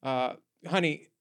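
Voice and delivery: catty diva building to a shrieking yell; sassy pageant diva. Acted. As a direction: start snide, end screaming bitch. Acting a diva contestant confrontation.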